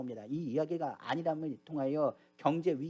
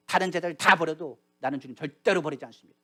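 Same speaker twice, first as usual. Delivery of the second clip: acted bold vow of loyalty; preacher voicing a self-assured disciple; confident declaration. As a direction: declare it proudly, with firm emphasis. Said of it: "당당히 말하기를".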